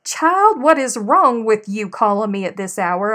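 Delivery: a startled nanny scolding her grandchild; scolding grandmother. Retold or imitated. Nanny woken at three, scolding the grandchild on the phone. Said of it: "And she said".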